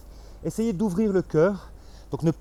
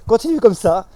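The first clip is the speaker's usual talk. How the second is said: loud encouragement; 6 semitones higher, 10 dB louder than usual. Real, not acted. Instructor urging the class through a tiring exercise, loud encouragement. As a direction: call it out loud and high to keep the class going.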